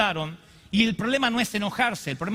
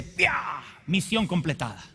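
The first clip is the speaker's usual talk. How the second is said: gloating devil. Retold or imitated. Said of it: "Ahí es cuando el diablo dice".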